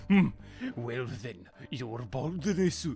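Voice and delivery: slow, deep mock Japanese accent; drawn-out stereotypical Japanese accent. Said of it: "Fucking stereotypical Japanese accent".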